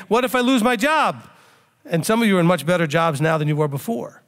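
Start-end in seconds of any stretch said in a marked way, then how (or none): 0.1-1.2 mildly panicky, pitched higher; a touch of retold worry; mock worried panic. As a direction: imitate someone fretting, lightly acted. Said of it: "you were all worried and panicking".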